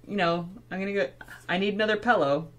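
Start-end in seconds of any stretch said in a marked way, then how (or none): 1.5-2.5 "pillow" said with an e sound, like "pellow"; Los Angeles pronunciation. Shown as a demonstration. Canadian imitating LA speakers, "pillow" quickly as "pellow". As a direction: open the i of "pillow" toward eh or a. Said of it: "almost like an E or an A sound".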